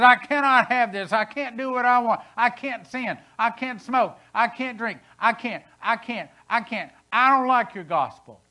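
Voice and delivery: high, loud, petulant complaining; whiny rebel. Retold or imitated. The rejecter of the gospel whining about its rules, high and loud. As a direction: whine it like a sulky rebel. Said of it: "It says".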